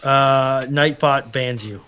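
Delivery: ordinary talk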